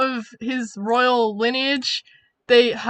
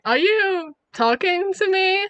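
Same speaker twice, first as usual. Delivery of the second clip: challenging retort; 7 semitones higher, slower than usual. Acted. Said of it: "he's just like".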